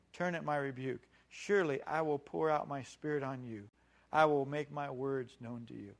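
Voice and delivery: gentle, measured reading with little force; loving. Acted. Preacher reading God's real words to show His love, gently loving. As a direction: offer it as a mild, reassuring promise. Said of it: "Listen to the love of God".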